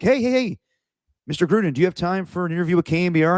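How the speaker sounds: high, quick mock reporter hail; imitated calling out. Reporters chase Gruden for an interview, mock eager calling out. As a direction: flag him down eagerly, retold lightly. Retold reporters chasing coach down.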